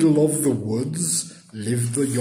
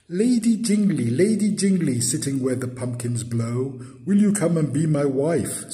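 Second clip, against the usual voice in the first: high, louder calls, easing into a proposal; Yonghy Bonghy Bò; 4 semitones higher, 4 dB louder than usual. Acted. Suitor asks Lady Jingly to be his wife, eager appeal. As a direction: call out to woo her.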